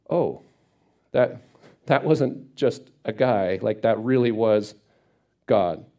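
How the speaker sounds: halting, stunned realization with long pauses; dawning realization. Acted. Gideon realizing who his visitor was, halting dawning realization. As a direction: let it sink in slowly, word by word.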